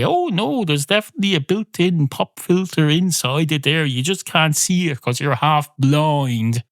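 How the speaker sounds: mock high-pitched sales rep, slowing down; mock manufacturer reply. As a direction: play the smug company rep brushing off the complaint. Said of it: "and say".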